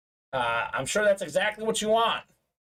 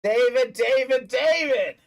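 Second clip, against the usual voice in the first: rising, louder calls of the name; excited cheer; 3 semitones higher, 4 dB louder than usual. Real, not acted. Host cheering a winning buyer, louder each time. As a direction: cheer him on.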